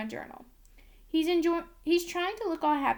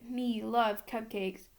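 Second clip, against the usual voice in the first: very slow, lightly voiced monster talk; Cookie Monster; 2 semitones lower, much slower than usual. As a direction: stretch the words out like a simple-minded puppet monster. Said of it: "that's Cookie Monster who talks like that".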